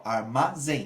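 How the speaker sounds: "armazém" slow and split, ending on stressed "zém"; syllable by syllable. Shown as a demonstration. Teacher showing why it takes an accent, "armazém" slowly split. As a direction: spell out the beats of "armazém": ar, ma, zém. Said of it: "a gente vai acentuar".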